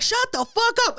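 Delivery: high-pitched mock-indignant retort; indignant comeback. Audience member telling the comedian off, in mock indignation. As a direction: throw it back in exasperated protest.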